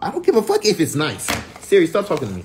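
high, loud outburst; angry yelling. Real, not acted. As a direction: snap at the phone angrily. Scolding Siri.

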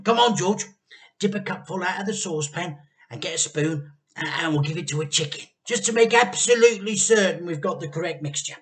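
eager urging. A narrator's reading. Dad urging George.

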